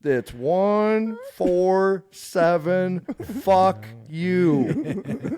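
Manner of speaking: very slow digits then laughing curse; mocking reveal. Teasing the scam caller before cursing him out, slow then laughing. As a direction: drag out the numbers then snap it off. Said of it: "I was like".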